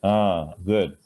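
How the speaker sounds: ordinary talk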